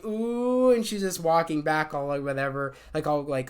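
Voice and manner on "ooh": drawn-out, higher-pitched "ooh"; imitated crowd "ooh". Everybody reacting as she is sent to the principal, mock "ooh". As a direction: mimic a crowd's teasing "ooh". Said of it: "and everybody's saying".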